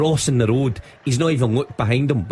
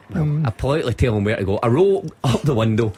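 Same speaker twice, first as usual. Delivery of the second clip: ordinary talk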